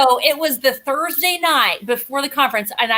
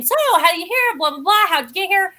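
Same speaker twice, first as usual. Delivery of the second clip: higher-pitched, rattled-off mock questioning; hammering questions; 5 semitones higher, faster than usual. Guest re-enacts hammering a stranger with questions, eager and higher. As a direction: pepper him with eager questions, lightly acted. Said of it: "I kept hammering him".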